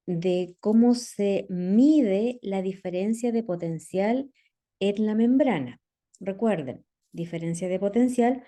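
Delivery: speaking with a dry mouth. Real, not acted. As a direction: mouth parched, words a bit sticky. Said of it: "tengo la boca seca".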